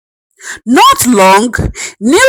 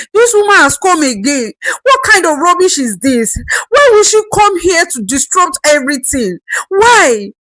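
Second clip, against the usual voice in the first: rising fury; 6 semitones higher than usual. Acted. Wife pacing alone, working herself into rising fury. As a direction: work herself up, angrier each line. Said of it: "tight with anger".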